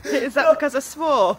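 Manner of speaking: laughing while asking; giggling; stifled giggles. Real, not acted. Laughing at own joke.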